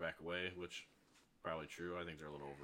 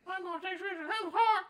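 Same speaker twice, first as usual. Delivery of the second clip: mocking valley girl; 14 dB louder than usual. Mocking TikTok college girls.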